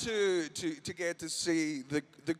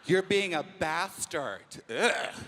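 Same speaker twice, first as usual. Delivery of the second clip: American; 3 dB quieter, much slower than usual. Retold or imitated. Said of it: "That's why they say".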